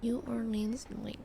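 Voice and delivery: whispered sign read. Real, not acted. Streamer quietly reading a sign on screen, whispered. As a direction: murmur "New Orleans link" under the breath.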